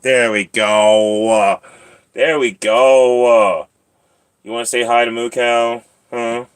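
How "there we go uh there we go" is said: loud, drawn-out praise; encouraging pet talk. Real, not acted. Praising the cat for jumping up, slow loud encouragement. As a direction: stretch it out slowly and loudly for the cat.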